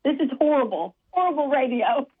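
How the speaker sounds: self-conscious put-on British accent. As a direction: keep up the amateur British accent. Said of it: "British accent and ask a question".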